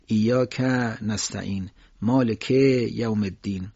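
ایاک and مالک with final short vowels drawn out; wrongly stretched endings. Shown as a demonstration. Teacher warning listeners, stretched word endings. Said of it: "نباید اینا کشیده بشه".

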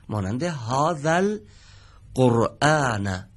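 هذا القرآن drawn out, long آ shortened before ال; slow recitation. Shown as a demonstration. Teacher models the example from page thirty-eight. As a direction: read هذا القرآن slowly and carefully. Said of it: "اولین عبارت رو دقت کنید".

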